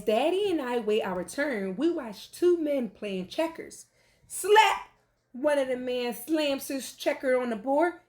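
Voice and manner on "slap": slap sound. A narrator's reading. Men slamming checkers.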